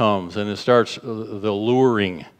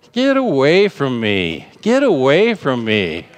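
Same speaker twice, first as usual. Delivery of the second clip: indignant rebuke; 4 semitones higher than usual. Shown as a demonstration. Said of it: "It's like".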